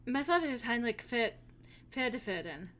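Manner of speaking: put-on lightly held German accent as Hilda; a hint of a German farm girl. Hilda tells the hero about her farm in a German accent. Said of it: "this accent".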